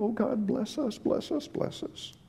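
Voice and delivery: fading from soft to a breathy whisper; mock a selfish plea that dies to a whisper; mock whispered prayer. Preacher mocks selfish believers, fading into a whisper.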